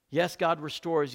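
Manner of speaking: ordinary talk, nothing marked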